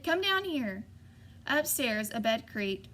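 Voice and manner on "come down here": put-on boy yelling for his parents to come down; shouted. A narrator's reading. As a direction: summon them down at three in the morning. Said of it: "I shouted".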